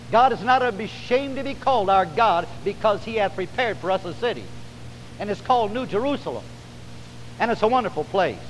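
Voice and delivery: heartfelt scripture preaching with lifted pitch. Real, not acted. Preacher proclaiming the heavenly city to the congregation, preaching. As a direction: proclaim the promise in measured phrases.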